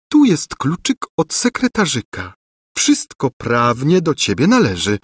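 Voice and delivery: high, animated lady's voice; cooing, scheming governess. A narrator's reading. Governess flattering the rightful king, coaxing. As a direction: coax the prince in a high-pitched voice.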